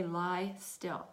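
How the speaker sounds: quietly composed instruction; calm voice. Retold or imitated. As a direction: say it softly and evenly, without emotion. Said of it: "very calmly say".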